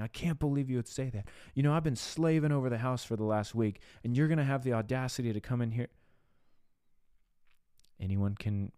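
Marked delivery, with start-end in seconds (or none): 0.0-5.9 higher-pitched mock indignation; offended, self-justifying. Spouse back at partner after a week of dishes, acted indignation. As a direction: act out a mildly affronted spouse. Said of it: "getting offended and justified and saying".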